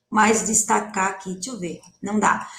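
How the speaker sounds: normal talking voice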